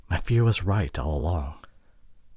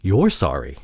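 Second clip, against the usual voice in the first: louder, taken-aback question; can't believe the apology; surprised disbelief; 3 semitones lower, 6 dB louder than usual. Acted. To partner who apologized, surprised and disbelieving.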